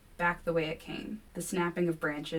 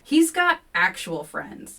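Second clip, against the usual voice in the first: slow, louder snap; snapping; 2 semitones higher, 8 dB louder, slower than usual. A narrator's reading. Kevin snapping at the narrator, slow and louder. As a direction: bite each word out. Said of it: "Kevin snaps".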